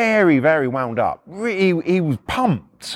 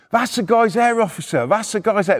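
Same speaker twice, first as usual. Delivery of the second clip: higher, urgent pointing-out; retold calling out; 5 semitones higher than usual. Neighbour telling officer from the window, urgent call.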